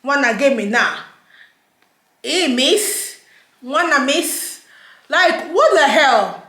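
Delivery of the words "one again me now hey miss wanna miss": lightly mocked British street accent. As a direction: mimic landlords faking a British accent, pitched up. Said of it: "Accent don't change".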